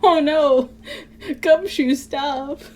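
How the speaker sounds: high, loud alarmed shout; high panicked shout; panicked cry. Acted. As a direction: cry out in panic to stop him.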